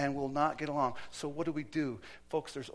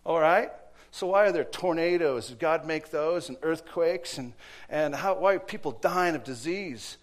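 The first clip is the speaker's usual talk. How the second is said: much louder, pressing questions; loud challenge; 3 semitones higher, 9 dB louder than usual. Retold or imitated. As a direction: hammer the questions at her. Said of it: "And he went".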